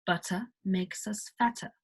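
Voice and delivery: "Butter" with a crisp T and no R; British butter. Shown as a demonstration. Teacher demos the British T to learners. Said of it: "Instead of".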